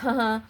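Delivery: short mocking huh-huh chuckle; the guard laughing at her, mocked. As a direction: imitate a sneering little laugh. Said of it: "laugh and be like".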